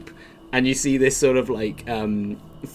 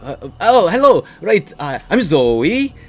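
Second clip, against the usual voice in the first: high, slow, loud tiefling voice; Zoe; 10 semitones higher, 6 dB louder, slower than usual. Acted. Game master greets the party as a tiefling who followed them, high-pitched. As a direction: draw it out in a high, odd character voice. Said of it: "I've gotta get the voice right".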